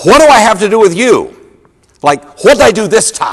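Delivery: put-on high, swooping childlike voice. Reading the loud voice's cry in a story, like a little kid. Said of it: "like a little kid kind of".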